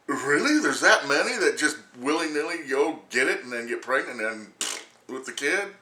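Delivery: high, loud, half-laughing disbelief; incredulous. Retold or imitated. Scoffing at women on the news, high incredulous laugh. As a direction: laugh through the question in disbelief.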